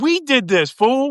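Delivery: high, mad, indignant tone.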